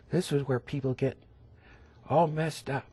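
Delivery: ordinary delivery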